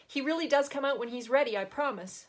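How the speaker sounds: a nervous mother pleading quickly. A narrator's reading. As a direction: hurry to reassure her. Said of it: "Margot seemed nervous".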